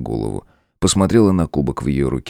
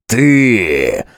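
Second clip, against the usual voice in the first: шипение; 6 semitones higher, 5 dB louder than usual. A narrator's reading. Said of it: "вновь зашипел тот".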